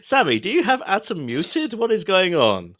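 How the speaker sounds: put-on American accent. Relaying a cohost's muting question to Sammy, American accent. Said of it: "he said in an American accent".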